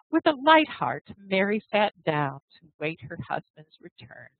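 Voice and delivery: expressive read-aloud storytelling; story narration. Acted. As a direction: tell the tale with feeling for the class.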